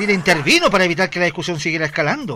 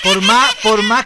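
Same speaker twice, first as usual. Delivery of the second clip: laughing; 2 semitones higher, 7 dB louder, slower than usual. Real, not acted. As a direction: squeak it out through laughter. Estalla en risa. (riendo, muy agudo)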